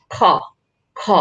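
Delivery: খ with a strong puff of air; aspirated খ demo. Shown as a demonstration. Teacher showing aspiration into a hand, breathy খ. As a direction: push breath out on খ so a hand feels it. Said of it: "মুখের কাছে হাত নিয়ে আপনি খ উচ্চারণ করেন".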